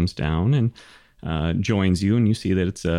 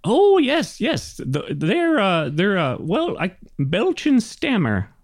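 high-pitched, halting gnome voice; senile old gnome; 11 semitones higher than usual. Acted. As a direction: fumble for the names in a high gnome voice. Gnome answers player's question.

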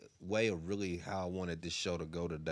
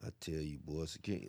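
whispering; 7 semitones lower, 13 dB quieter, faster than usual. Real, not acted. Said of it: "Why are you whispering?".

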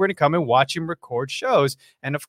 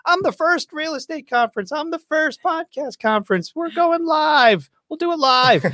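high-pitched hype parody, talking the event up; mock promoter proudly announcing a first; mock boastful claimants; 13 semitones higher than usual. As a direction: crow each claim in a much higher, hammed-up voice. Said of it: "Everybody's claiming".

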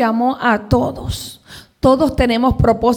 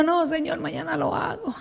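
hushed, higher-pitched putting-off; soft reluctant reply; 4 semitones higher, 11 dB quieter than usual. Retold or imitated. Answering God's call at half past two, quietly reluctant. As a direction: act out a quiet nighttime excuse.

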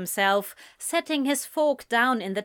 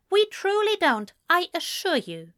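Ezra voice; 9 semitones higher than usual. A narrator's reading. Ezra insisting.

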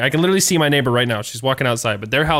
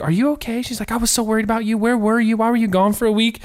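high, mock-concerned Southern neighbor; Southern accent; 9 semitones higher than usual. Imitating the Southern neighbor checking on Kelly, Southern accent. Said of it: "She's got a southern accent".

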